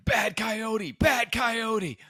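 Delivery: high pitched scolding at the coyote; shooing yell. Retold or imitated. Wife scolding a coyote away from the dog, high mock yell. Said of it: "Rachel's yelling".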